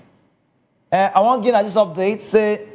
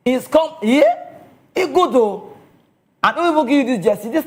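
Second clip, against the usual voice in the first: higher, brighter burst of praise; excited praise; 4 semitones higher than usual. Real, not acted. Excited praise of Onyedika to the viewers. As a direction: lift up the voice in delight.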